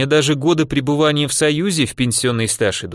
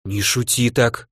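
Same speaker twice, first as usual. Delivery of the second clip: sighing; slower than usual. Acted. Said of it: "вздохнула супруга".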